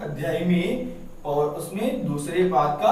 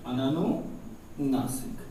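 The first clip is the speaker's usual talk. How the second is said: "अननुनासिक" drawn out slowly and softer, each syllable clear; slow repeat; 5 semitones lower, 6 dB quieter, much slower than usual. Shown as a demonstration. Teacher repeating "अननुनासिक" slowly and softly for students to note. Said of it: "और एक होता है अननुनासिक".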